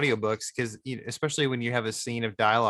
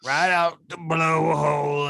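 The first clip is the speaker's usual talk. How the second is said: Australian line quoted; 4 semitones higher, 4 dB louder, much slower than usual. Retold or imitated. Quoting an audiobook character.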